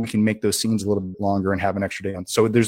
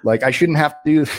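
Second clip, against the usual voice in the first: heated rant; 3 semitones higher than usual. Retold or imitated. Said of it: "I was pretty heated".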